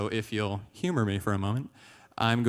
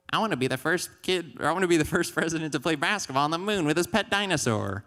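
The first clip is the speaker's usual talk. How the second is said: put-on higher, excited kid with big dreams; eager kid; 6 semitones higher than usual. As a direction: blurt it out like an ambitious child. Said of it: "when I was younger, I was like".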